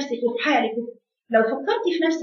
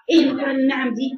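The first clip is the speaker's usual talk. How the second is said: shouted rebuke. Real, not acted. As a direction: shout the question again. Preacher repeats rebuke.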